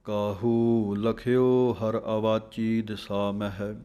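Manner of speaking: slow, measured recital of the verse; slow scripture recitation. Shown as a demonstration. Teacher reciting the verse for students, slow. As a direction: read each word deliberately. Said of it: "ਲਖਿਓ ਪਾਠ ਪੋਲਾ ਹੈ".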